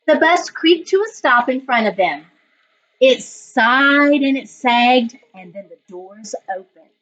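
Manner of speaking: put-on reading a picture book aloud to children; story narration. A narrator's reading. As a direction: tell it gently, like story time for the class. Teacher reads picture book aloud.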